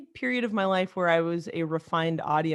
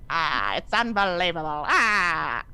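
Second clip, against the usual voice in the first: hammed-up old-Hollywood actress impression; a badly faked film-star voice, opening and closing on an exclaimed "Ah"; Katharine Hepburn; 4 dB louder, slower than usual. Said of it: "it comes out like Katharine Hepburn".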